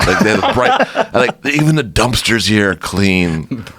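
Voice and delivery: laughing. Real, not acted. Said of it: "we both start laughing".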